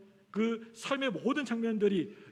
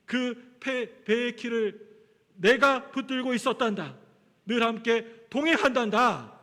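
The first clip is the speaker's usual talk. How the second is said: louder, ringing assurance, ending slow; God's firm promise; 6 dB louder than usual. Retold or imitated. God promising the lost sailor he held the helm, in a louder, ringing, assuring voice.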